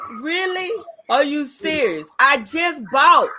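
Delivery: high, incredulous outburst; mock outrage at the guard; indignant shopper; outraged disbelief. Retorting to guard.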